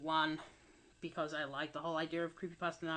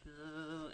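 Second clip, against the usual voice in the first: imitated buzzing noise; 7 dB quieter than usual. Creator mimicking their annoying microphone, soft buzzing noise. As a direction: imitate a mic buzz, softly. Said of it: "makes this buzzing noise".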